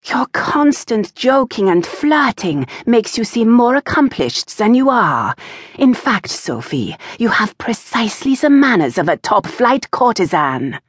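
a lightly voiced stern mother, scolding; lightly played mother lecturing her daughter. A narrator's reading.

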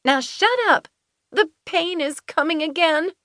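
high, strained command through pain; pained Finley. A narrator's reading. Finley in labour snaps at them, high and strained. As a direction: bark it through a contraction.

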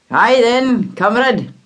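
gruff father. Acted. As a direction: brush it off quickly like a tired dad. Father greets stranger.

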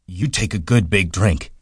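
eager childlike giant, lightly voiced; Lenny voice. A narrator's reading. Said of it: "He smiled happily".

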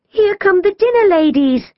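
high-pitched gasp of alarm; gasp, then warn urgently. A narrator's reading. Jazz warns sisters that staff approach, alarmed warning. Gasped warning of adults arriving.

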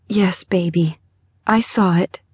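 hushed, breath-filled reassurance; soothing mother. A narrator's reading. Mother holding daughter, trying to calm tremors, hushed soothing. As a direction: reassure your child under your breath.

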